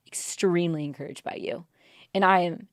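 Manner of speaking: real emotion breaking into a whisper; choked-up whisper. Real, not acted. Host thanking the guest, whispering through real emotion. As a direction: voice dropping to a whisper as tears come. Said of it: "I'm gonna get emotional".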